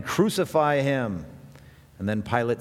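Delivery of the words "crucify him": crowd's cry. Retold or imitated. Retelling the mob demanding death, slow raised cry. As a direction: call it out like the mob. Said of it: "they cried out again".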